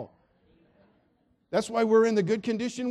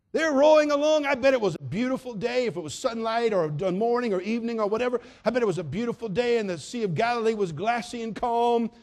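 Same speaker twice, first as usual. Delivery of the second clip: raised, higher preaching voice; rising preaching; 4 semitones higher, 4 dB louder than usual. Acted. Preacher paints the calm lake, voice raised. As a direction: paint the calm sea for the church.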